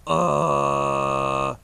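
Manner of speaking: short grinding grunt; false fold growl. Shown as a demonstration. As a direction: grind it in the throat. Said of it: "you hear that grind?".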